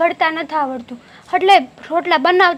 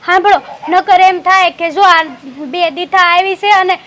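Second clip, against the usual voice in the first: louder, pressing plea to stop her; anxious, raised plea to the mother-in-law; urgent pleading; 2 semitones higher, 5 dB louder than usual. Acted. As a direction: hurry to beg her not to say anything.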